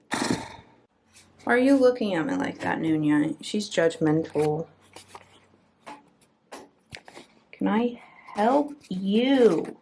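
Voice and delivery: hammed-up tough talk at the cat; mock confrontation. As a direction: pretend to square up to a judgmental pet.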